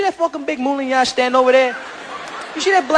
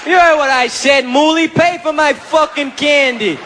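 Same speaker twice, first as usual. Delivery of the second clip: put-on belligerent drunk; 3 semitones higher, slower than usual. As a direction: pick a fight, pumped up. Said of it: "Oh, you just saw Rocky".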